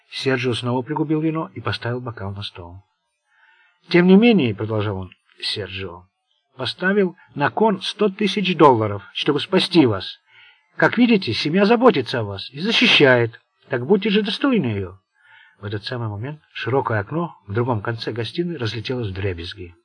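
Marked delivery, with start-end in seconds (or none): 3.9-4.5 put-on loud, commanding old don; stern old mafia boss. Sergio continues speaking. 6.6-15.0 put-on loud, commanding old don; stern old mafia boss. Sergio continues speaking.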